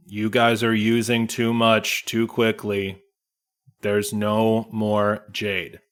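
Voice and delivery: unmoved, just state the facts; monotone dwarf. Acted. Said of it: "Jorn is expressionless and monotone".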